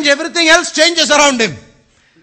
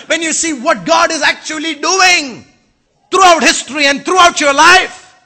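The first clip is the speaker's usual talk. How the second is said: preaching shout; 4 semitones higher than usual. Real, not acted. Preacher building to a climax.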